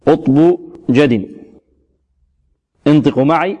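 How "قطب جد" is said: slow QUTB JAD with echoing stops; qalqalah letters. Shown as a demonstration. Teacher reciting the qalqalah letters, slow bouncing consonants in "قطب جد". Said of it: "حروف القلقلة المجموعة في قولهم".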